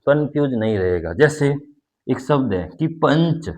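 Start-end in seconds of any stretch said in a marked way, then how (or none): 3.0-3.5 पंच with a long nasal after प, पन-च; anusvara demo. Shown as a demonstration. Teacher showing full anusvara in पंच. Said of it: "तो प, पन, पन".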